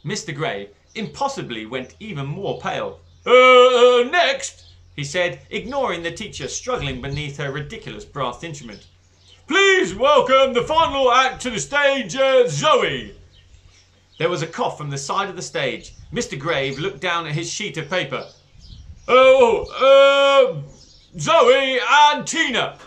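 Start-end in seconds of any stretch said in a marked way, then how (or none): 3.3-13.1 loud, high, hurried announcement; flustered headmaster. Acted. 19.1-22.8 loud, high, slow correction; flustered headmaster. Acted.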